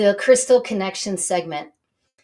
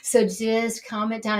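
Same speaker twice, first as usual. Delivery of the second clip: calming down. Shown as a demonstration. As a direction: ease off the excitement a little. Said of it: "I know I get going".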